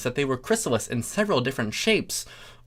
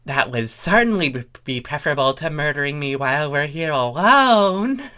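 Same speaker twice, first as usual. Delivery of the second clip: Thorax voice; 3 semitones higher, 4 dB louder than usual. Acted.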